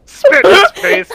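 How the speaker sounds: high, loud cackling boast; gleeful yell. Real, not acted. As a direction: shout it with glee. Gleeful kill description.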